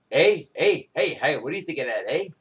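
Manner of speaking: punchy, repeated Canadian "eh"; lightly put-on Canadian lilt; mock Canadian accent. Host clowning about being taken for foreign, mock Canadian accent. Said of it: "I don't even have a Canadian accent".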